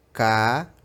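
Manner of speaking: "cadeira" in three separated chunks, ca, dei, ra; syllable-by-syllable. Shown as a demonstration. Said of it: "faz o som de K".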